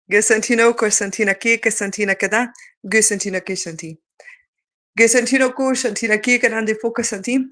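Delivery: rhythmic chanted light language. Acted. Speaker channeling light language to viewers, chanting. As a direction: channel it like a sacred tongue.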